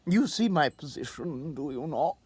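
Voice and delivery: exasperated outburst. Acted. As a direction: cry out at the unfairness. Despairing exclamation.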